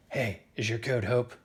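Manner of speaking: low patrolling-guard voice; killer T cell. Acted. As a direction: question a passer-by in a low voice. Killer T cell questions next cell.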